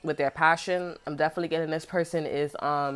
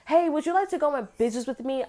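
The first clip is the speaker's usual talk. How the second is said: mock girly voice; 8 semitones higher than usual. Mocking ex-friend's offer.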